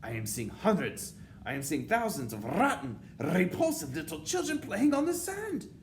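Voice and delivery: loud, high witch rant swelling to a scream; disgusted witch tyrant. A narrator's reading. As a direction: build from outraged complaint to screamed demand. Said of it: "she screamed".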